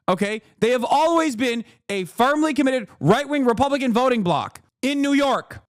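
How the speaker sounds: ordinary delivery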